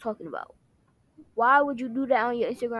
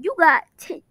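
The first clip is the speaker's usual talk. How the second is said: whiny complaint; 3 semitones higher than usual. Acted. Complaining about followers, whining.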